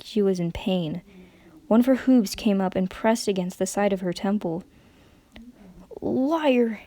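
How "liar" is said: a breathy, accusing whisper. A narrator's reading. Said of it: "whispered the mare".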